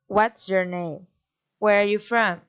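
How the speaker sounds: questions dropping on NAME and FROM; falling intonation. Shown as a demonstration. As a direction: let the pitch fall at NAME and at FROM. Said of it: "falling inton-, intonation".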